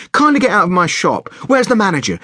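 a touch of outrage; indignant quarrel. A narrator's reading. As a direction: trade affronted orders. Quarrel between mother and shopkeeper.

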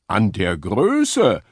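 slow, alarmed question; the stag realising the danger; startled and fearful; frightened. A narrator's reading. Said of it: "fragte Hirsch erschrocken".

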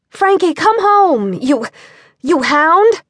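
firm, slow mock-stern mom call, leaning on home; a lightly voiced stern mother yelling; no-nonsense mom voice. A narrator's reading. Mother calling the dog home, mildly stern. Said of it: "Emma yelled in her best no-nonsense mom voice".

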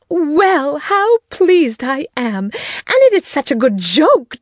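high, delighted exclaiming; raptures. A narrator's reading. Wife praises her husband's surprise, in high delight. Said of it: "the raptures of his wife".

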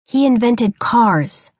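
slow, lightly voiced boy explaining. Boy explains to his father, slow and patient. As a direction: patiently spell it out to Pa. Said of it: "he explained".

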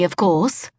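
haughty fake British, rising; smug put-on British tone; phony British accent. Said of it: "a decidedly phony British accent".

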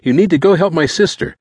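high-pitched, urgent begging; frantic boy's cry; pleading cry. A narrator's reading. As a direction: plead desperately for help. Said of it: "turned to him and cried".

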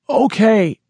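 gasped surrender. Acted. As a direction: give in on a gasp. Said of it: "he gasped".

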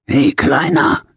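a bright high call after the coughing; sudden energy. Acted. Dying prisoner calls to his nurse, suddenly lively. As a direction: perk up all at once and call him over. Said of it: "mit einem Mal voller Energie".

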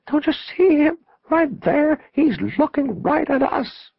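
high, loud visionary excitement; rapturous, high-pitched insistence; ecstatic urging. A narrator's reading. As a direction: cry out for them to see it. Visionary points, ecstatic, urging friends.

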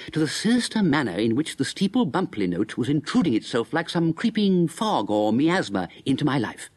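brisk first-person narrator's telling; story narration. A narrator's reading. Narrator Bertie recounting his walk to the bookshop, brisk telling. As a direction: tell it straight to the audience.

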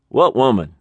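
high, innocent manager voice; evasive manager. Acted. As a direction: play dumb in the high manager voice. Manager plays dumb.

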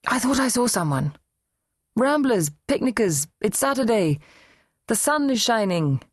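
a hint of the mother explaining it away; mother's voice. A narrator's reading. Mother explains seeing someone.

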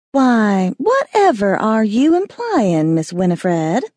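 put-on coy Southern belle accent, a bit slowed. Calla teasing Winnie about her insinuation, in a mock Southern belle accent. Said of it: "in her best Southern accent".

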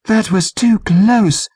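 plain reading voice

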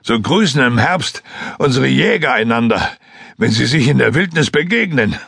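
a hint of the forest man, friendly; Lasnik explaining. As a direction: explain the greeting patiently as a rough hunter. Lasnik explains the hunters' greeting.

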